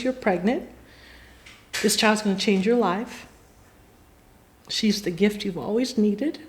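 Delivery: soft, measured fortune-telling, retold; hushed prophecy. Psychic telling her future to her, hushed. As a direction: deliver the revelation softly, pausing between sentences.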